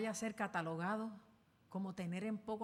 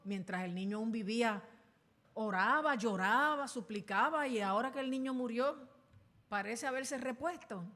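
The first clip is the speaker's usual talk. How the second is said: louder, rising plea of disbelief; loud bewilderment; 3 semitones higher, 6 dB louder than usual. Acted. Servants questioning David after the child's death, loud and bewildered. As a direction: push it out as if you cannot understand.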